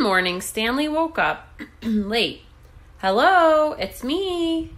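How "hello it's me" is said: high, loud call to friends. A narrator's reading. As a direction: call out brightly to your friends. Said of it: "he called to his friends".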